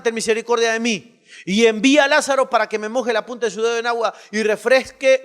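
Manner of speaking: loud, fast preaching read; forceful scripture reading. Acted. Preacher reading the rich man's plea aloud, loud and fast. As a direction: drive the verses out with force.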